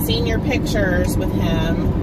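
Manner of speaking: usual speaking voice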